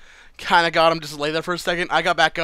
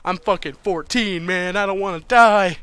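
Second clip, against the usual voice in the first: mock fearful pleading, louder by the end; imitating panicked pleading; 4 dB louder than usual. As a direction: replay the terrified begging, rising to a loud cry. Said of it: "I was almost in tears".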